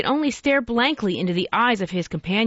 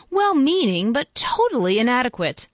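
rising, louder and higher with zeal; growing enthusiasm; 6 semitones higher, 4 dB louder than usual. Acted. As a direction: let the enthusiasm build up. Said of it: "with growing enthusiasm".

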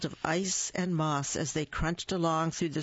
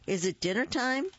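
calling out; 7 semitones higher than usual. Acted. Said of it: "he called".

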